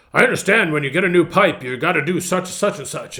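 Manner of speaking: lightly imitated Southern interviewer, starting high and loud; a hint of Southern gentleman's accent. Interviewer asks about a new pipe, lightly imitated Southern accent. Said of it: "true Southern gentleman's accent".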